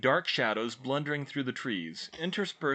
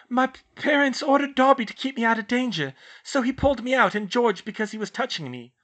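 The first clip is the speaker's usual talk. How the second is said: shakily; 13 semitones higher, 7 dB louder than usual. A narrator's reading. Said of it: "Hermione explained shakily".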